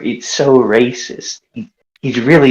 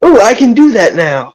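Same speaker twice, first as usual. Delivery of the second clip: higher, excited exclamation; excited realisation; 7 semitones higher than usual. Acted. Player realises he can do a medicine check, excited. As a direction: burst out with a sudden discovery.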